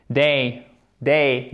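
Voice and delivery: Day with a gliding vowel; diphthong. Shown as a demonstration. Teacher isolating the sound, diphthong in Day. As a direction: glide from eh to ee in Day.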